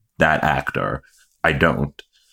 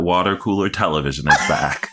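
mock announcer shout. Cohost quoting his own post, hammed-up promo shout.

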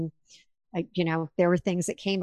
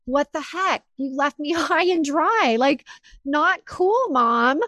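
mock reproach; 6 semitones higher, 4 dB louder than usual. Voicing her past thoughts to mom.

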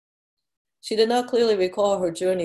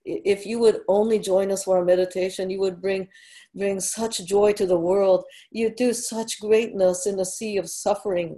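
pleading; 2 semitones higher than usual. Acted. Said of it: "She glanced up shyly and pleaded".

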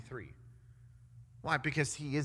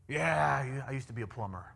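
mock reminiscing; 3 semitones lower than usual. Preacher imagines God chatting about old times, mock reminiscing. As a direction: casually look back on an old job, in jest. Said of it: "that's how we talk".

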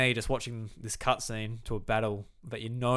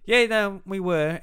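mock villain; 8 semitones higher, 9 dB louder, slower than usual. Villain admits being bad.

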